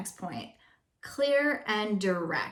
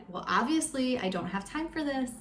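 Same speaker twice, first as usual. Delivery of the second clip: annoyed inner voice; 4 semitones higher than usual. Retold or imitated. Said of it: "in my head".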